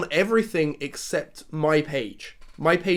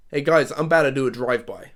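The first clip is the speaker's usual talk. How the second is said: loud, called out for all to hear; 3 semitones lower than usual. Retelling a walk past a couple eating outside: retelling saying it loudly. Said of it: "I said that loudly".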